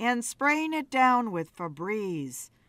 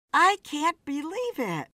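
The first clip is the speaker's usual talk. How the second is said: high, giddy woman's voice; amused disbelief; 7 semitones higher than usual. A narrator's reading. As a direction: marvel at him, tickled and incredulous. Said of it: "Beth laughed".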